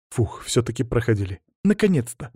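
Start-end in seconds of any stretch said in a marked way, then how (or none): 1.6-2.3 put-on high-pitched girlish exclamation; excited relief. A narrator's reading. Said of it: "подскочила Анжела". (радостно, высоким голосом)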